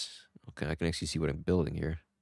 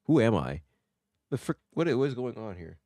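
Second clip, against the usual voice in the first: mock confusion; 3 semitones higher than usual. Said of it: "You just be like".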